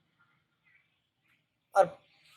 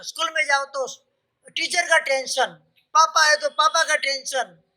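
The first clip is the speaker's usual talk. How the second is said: lightly voiced little girl, higher pitch; retold child's complaint; 5 semitones higher than usual. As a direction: list the woes in a raised child-like voice. नौ साल की बच्ची का जवाब. (बच्ची की हल्की नकल, ऊँचे सुर में शिकायत)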